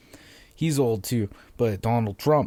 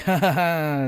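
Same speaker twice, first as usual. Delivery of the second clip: higher, unconvincing "ha ha ha"; fake laugh; 5 semitones higher than usual. Shown as a demonstration. Comic imitates people who heard nothing funny, fake laugh. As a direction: laugh politely without meaning it. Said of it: "that's not real".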